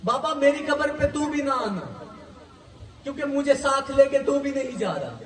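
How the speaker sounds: keen the tale of Sugra for the mourners; mourning majlis recitation. Acted. Preacher recounting Sugra's farewell to mourners, in a tearful lament.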